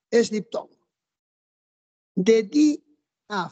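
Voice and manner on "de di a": "di a" split into two beats, di, a; vowels pronounced apart. Shown as a demonstration. Teacher showing the hiatus to students, "di a" pronounced separately. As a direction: break after "di", then say "a" alone. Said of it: "di a se pronuncia separado".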